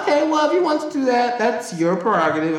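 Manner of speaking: high, fast, sugary fake-polite voice; mock polite employee voice; customer service voice. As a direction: put on the sweet work voice. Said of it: "So I'm like".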